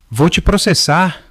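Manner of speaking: high, loud, slow furious shout. A narrator's reading. Father screaming a lawsuit threat at son. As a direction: spit the threat out in rage. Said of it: "o pai gritou".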